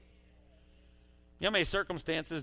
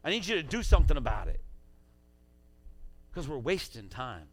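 commanding voice of God; 5 dB louder than usual. Pretend. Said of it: "He says".

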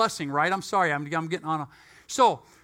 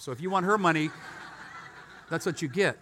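chuckling while delivering the jab; amused half-laughed retort; laughing through it; 4 semitones lower, 3 dB quieter, faster than usual. Retold or imitated. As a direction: laugh at your own comeback. Laughing through retold phone quarrel.

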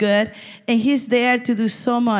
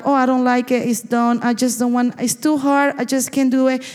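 higher-pitched mock complaint; quitting attitude; 4 semitones higher than usual. Preacher voicing the church's quitting mentality, mock complaining. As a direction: imitate someone giving up, pitched up. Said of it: "This quitting mentality that is going up".

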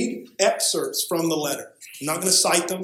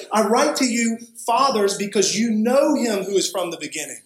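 raised-pitch, measured reading aloud; emphatic scripture reading; 5 semitones higher than usual. Real, not acted. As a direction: proclaim the letter to the congregation. Reads the letter aloud emphatically.

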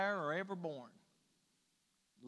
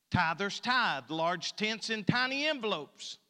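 rhythmic, louder poem reading; poem recitation; 3 dB louder than usual. Acted. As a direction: declaim the church lines with dry irony. Continues the poem.

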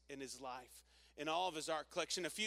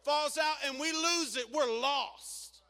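put-on much higher, louder warning to the children; mother warning kids; 10 semitones higher, 12 dB louder than usual. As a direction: scold the kids away from the window. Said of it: "gathering around her kids and saying".

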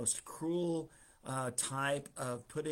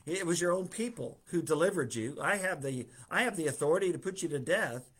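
higher, louder, scornful Pilate, speeding up at the end; sarcastic; 4 semitones higher, 4 dB louder, faster than usual. Retold or imitated. Pilate sneering sarcastically at Jesus, higher and louder. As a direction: sneer it like a governor mocking a prisoner. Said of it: "you can just hear the sarcasm".

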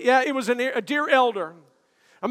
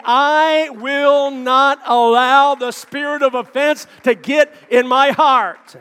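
firm declaration; 5 dB louder, slower than usual. Acted. Preacher declares firm resolve.

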